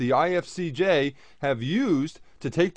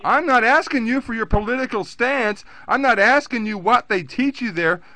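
raised and higher, berating; heated lecture; 3 semitones higher than usual. Real, not acted. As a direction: scold her hotly. Caller berates agent.

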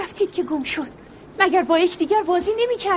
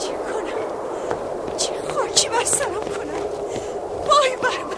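grieving lament; 2 semitones higher, 3 dB quieter than usual. Acted. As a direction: wail it in despair. Aunt laments lost nephew.

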